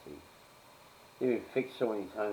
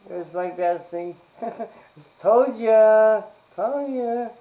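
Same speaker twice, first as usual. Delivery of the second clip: excited gloating; 14 semitones higher, 12 dB louder, much slower than usual. Real, not acted. Gloating that she predicted call.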